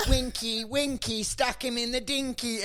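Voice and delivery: teasing schoolyard rhyme, mock bully; taunting bullies. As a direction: imitate bullies taunting their victim. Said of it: "they grab my bag, and they're like".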